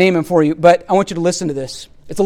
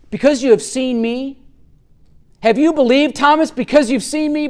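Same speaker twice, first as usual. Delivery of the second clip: "Because you have seen me" rising at the end as a question; questioning tune; 5 semitones higher than usual. Shown as a demonstration. Jesus asking Thomas about his belief, questioning tune. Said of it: "there is a question mark".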